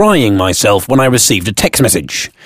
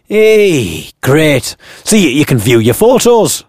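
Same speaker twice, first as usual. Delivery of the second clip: higher, eager cabbie voice; chatty taxi driver; 4 semitones higher, slower than usual. Acted. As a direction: play the keen cabbie.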